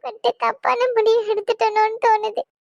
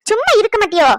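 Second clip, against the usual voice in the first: snapped hush; 5 dB louder, faster than usual. Acted.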